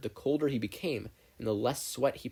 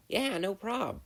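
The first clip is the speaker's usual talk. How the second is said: casual Mei; 11 semitones higher, slower than usual. A narrator's reading.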